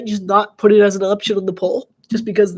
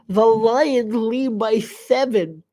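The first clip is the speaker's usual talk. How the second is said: normal talking voice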